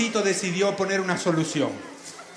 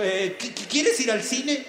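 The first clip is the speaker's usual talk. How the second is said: slow, stammering qui-, qui-; nervous stutter; 3 semitones higher, slower than usual. Acted. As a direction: stammer out the shy invitation. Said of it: "se acordó y dijo". (tartamudeo nervioso y lento)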